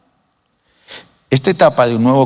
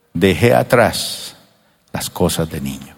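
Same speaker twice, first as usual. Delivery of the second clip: slow fading; 7 semitones lower, 3 dB quieter than usual. Acted. Slow fading verse ending.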